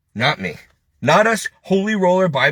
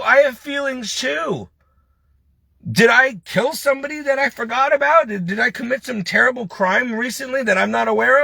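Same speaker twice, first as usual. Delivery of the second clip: real exasperated protest, pitched up; hurt indignation; 4 semitones higher than usual. Real, not acted. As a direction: plead indignantly to be treated as human. Venting about being mistreated by everyone.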